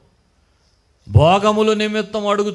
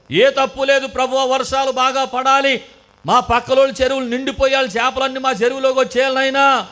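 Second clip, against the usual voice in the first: higher, louder greedy plea to God; mock fish farmer begging God, higher and louder; mock selfish prayer; 5 semitones higher, 4 dB louder than usual. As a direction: ham up a selfish pleading prayer.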